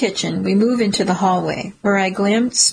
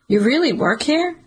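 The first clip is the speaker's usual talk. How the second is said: surprised; 6 semitones higher than usual. Acted. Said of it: "Kenny says".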